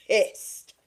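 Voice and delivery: stage whisper of "pissed". Acted. Telling viewers the ringleaders are angry, whispered. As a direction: drop to a whisper for the payoff. Pointed punchline about ringleaders.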